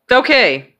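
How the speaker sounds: high, projected all-clear; imitating a doctor calling the release. Doctor calls all-clear after x-ray.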